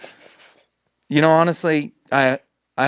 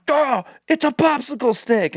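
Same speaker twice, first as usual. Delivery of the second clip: mock dismissive stranger; 11 semitones higher than usual. Stranger excuses himself.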